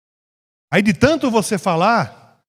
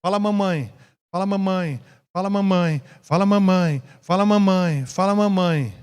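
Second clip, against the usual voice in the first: insistent parent; 4 dB quieter than usual. Acted. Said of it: "se você ficasse lá pro seu filho".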